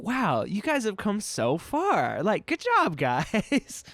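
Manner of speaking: high, proud praise that climbs; proud cheer. Pretend. Fan cheering on the anime heroes, proud and high.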